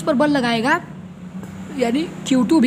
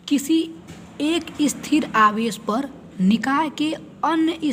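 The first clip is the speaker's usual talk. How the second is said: slow, measured reading of a definition; slow dictation. Shown as a demonstration. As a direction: dictate it word by word for notes. Teacher dictates the definition slowly. (धीमे-धीमे परिभाषा लिखवाना)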